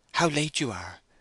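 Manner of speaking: affectionate, tender. Narrator voicing Bathsheba greeting Frank: tender. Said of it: "she continued tenderly".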